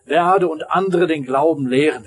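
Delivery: high, loud bargaining cry; man on the cliff shouts a bargain to God; shouted plea. Acted. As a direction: shout the promise up to heaven, begging. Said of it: "schrie er nochmal".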